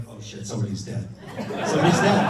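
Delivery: hammed-up alarm at a call-back voicemail; mock panic. Son hearing dad's voicemail, mock panicked.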